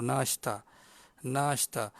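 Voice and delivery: "nashta" with a long first "naa"; long vowel. Shown as a demonstration. Listener finally understands the word, long "naa" in "nashta". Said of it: "fokuslah kepada sebutan yang betul".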